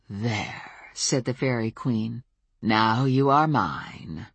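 low, slow, cold queen voice; cold regal fairy queen. Acted. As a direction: claim her with cold royal calm. Fairy queen claims a thrall.

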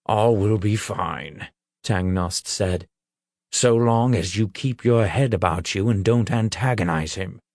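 a lightly voiced, wry old troll; gruff troll. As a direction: give it a dry, knowing troll voice. Troll Tangnost speaks.

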